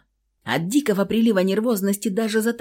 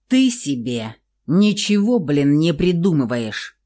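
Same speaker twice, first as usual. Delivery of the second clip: commanding; 4 dB louder than usual. Acted. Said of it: "приказал он".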